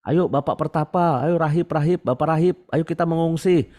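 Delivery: mock calling out. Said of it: "Orang-orang teriak-teriak kan".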